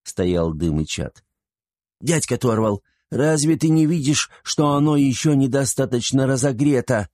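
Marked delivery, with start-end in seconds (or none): 2.0-7.1 put-on high-pitched scolding child; bossy little girl. A narrator's reading. Girl scolding uncle Torval at the forge, bossy and high. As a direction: pipe up high, nagging the grown-up. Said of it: "девочка покрикивала на Торвала".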